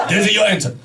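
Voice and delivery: Japanese-accented doctor impression; mock Japanese-accented doctor; imitated Japanese accent. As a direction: put on a thick Japanese accent. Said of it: "this is how he spoke".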